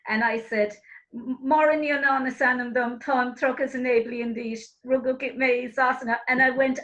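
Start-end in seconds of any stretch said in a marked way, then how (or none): 1.1-6.2 imitating a fluent rote exam recitation; learned-by-heart recital. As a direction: reel off a memorised Irish answer. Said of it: "I learned it off by heart".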